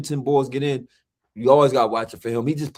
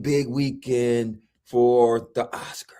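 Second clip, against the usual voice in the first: whispering; much slower than usual. Pretend. Teasing hush about Oscars weekend.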